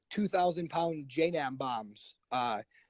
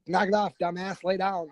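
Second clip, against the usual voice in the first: mock stern order; 5 semitones higher, 4 dB louder than usual. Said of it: "they're like".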